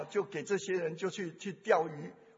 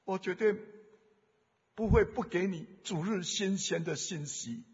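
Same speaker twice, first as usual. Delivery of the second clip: voice of God. Acted. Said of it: "我好像听到神的声音".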